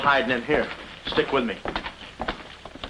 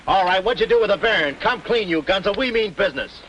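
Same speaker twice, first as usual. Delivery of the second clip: higher, insistent demand; tough interrogation; 3 semitones higher than usual. Acted. Accuser to a suspect about the baron, tough and demanding. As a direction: confront a suspect and press for answers.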